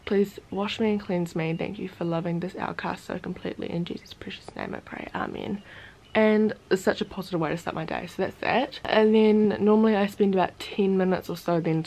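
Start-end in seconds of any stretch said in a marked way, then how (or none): 0.1-5.6 reading a prayer. Acted. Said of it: "I'll read you guys the prayer".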